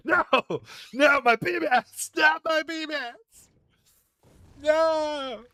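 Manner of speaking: high, loud rage shouts at the game; angry yelling. Real, not acted. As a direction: scream it out in real frustration. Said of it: "I gotta start piping down".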